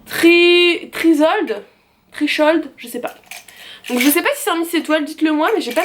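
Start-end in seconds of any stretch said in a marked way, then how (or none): 0.0-1.6 French speaker trying an English accent; hesitant attempt at an English accent, first syllable held; self-mocking "super" English accent with an s in Trisold; put-on English accent. Shown as a demonstration. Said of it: "attention mon super accent anglais". 2.1-2.7 English accent with a sh sound in Trichold; second try at an English accent; unsure, self-mocking English accent; put-on English accent. Shown as a demonstration. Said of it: "attention mon super accent anglais".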